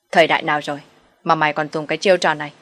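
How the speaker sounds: hard, forceful dressing-down; a mother-in-law calling the mistress's bluff, forceful and stern; angry challenge. Acted. Mother-in-law throws water, confronts.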